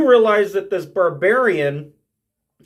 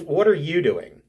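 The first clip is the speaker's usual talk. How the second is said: normal talking voice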